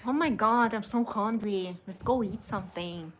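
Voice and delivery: half-hearted American girl impression; American girl accent. Woman trying it for her partner, light American girl accent. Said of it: "Talk like an American girl".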